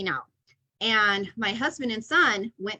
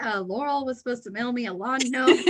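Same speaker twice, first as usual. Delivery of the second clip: laughing; 3 semitones higher than usual. Retold or imitated. Imitating a listener, laughing.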